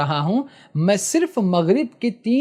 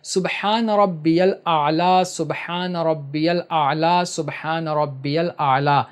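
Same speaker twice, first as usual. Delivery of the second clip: slow tasbih; 2 semitones lower, slower than usual. Shown as a demonstration. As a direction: recite it slowly three times, fading at the end. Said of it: "یہ تسبیح پڑھنا ہے".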